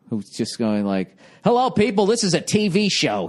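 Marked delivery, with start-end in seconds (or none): 1.4-3.3 mock TV host. Mocking the weird host for his corny humor. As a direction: ham it up like a cheesy sports host. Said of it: "He does, like, that type of humor".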